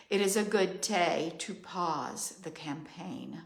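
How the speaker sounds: measured, ritual oracle cadence; steady solemn litany; incantatory reading. Acted. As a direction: chant each line like a decree. Reads her channeled journal message.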